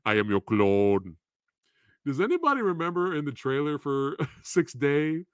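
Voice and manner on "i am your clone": lightly voiced action-hero growl; a hint of a flat muscleman movie line; Arnold voice. Riffing on the clone movie in a light Arnold voice. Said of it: "Arnold's voice".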